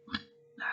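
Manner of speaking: small stifled burp; a burp slips out. Real, not acted. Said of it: "I don't know if you heard that burp".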